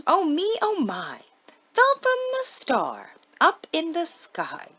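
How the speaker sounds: sing-song woe of a little pixie; high pixie lament. Acted. Pixie laments falling from star.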